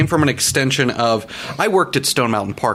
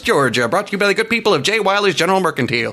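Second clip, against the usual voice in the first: high Southern announcer with a lisp; slushy lisp; 8 semitones higher, faster than usual. Retold or imitated. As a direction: yell it like a hammy country host. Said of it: "lateral lisp where I'm yelling at people like".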